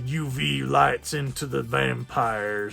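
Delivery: a hint of a gray-haired weapon maker's accent; Chris Christopherson. Mechanic hands the vampire hunter new weapons, lightly put-on voice. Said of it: "That's my Chris Christopherson accent".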